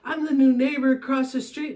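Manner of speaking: high-pitched, rambling apology; retold apology. New neighbor explaining to a staring stranger, high-pitched apology. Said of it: "I go".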